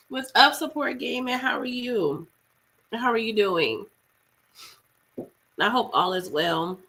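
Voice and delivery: rough throaty voice, sick with flu; hoarse sick voice. Real, not acted. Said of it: "Sorry if I'm sounding like, you know, sh-, a singer or another singer".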